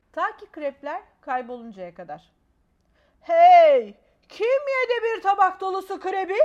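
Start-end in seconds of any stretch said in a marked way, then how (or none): 3.2-6.4 loud, raised parent's outcry; indignant shout. A narrator's reading. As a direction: call out who ate the crepes. Parent finds crepes gone. (krepleri arayan kızgın ebeveyn)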